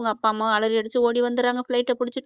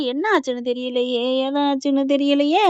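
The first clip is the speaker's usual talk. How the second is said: retold crying, understated; imitated weeping; 2 semitones higher than usual. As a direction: lightly act out a tearful worry, slowing at the end. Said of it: "அப்படின்னு சொல்லிட்டு அழுகா".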